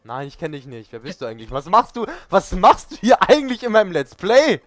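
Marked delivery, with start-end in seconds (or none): 1.5-4.6 loud, high mock outrage; mock angry. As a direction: throw the intruder out of the Let's Play. Playful fake angry host. (gespielt wütend, laut und hoch)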